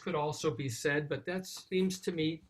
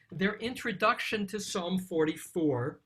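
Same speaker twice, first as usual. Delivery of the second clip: ordinary delivery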